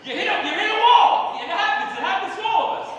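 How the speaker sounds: high, loud warning about ageing; alarmed outburst. Acted. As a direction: exclaim it in comic alarm.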